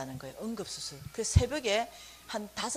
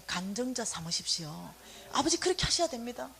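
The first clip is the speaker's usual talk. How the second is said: earnest prayer. Retold or imitated. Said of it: "간절하게 기도했어요".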